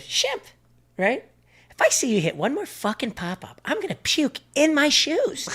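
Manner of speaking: high, loud coach tirade, slowing at the end; furious coach. Retold or imitated. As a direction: chew out the player like a raging coach. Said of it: "he goes".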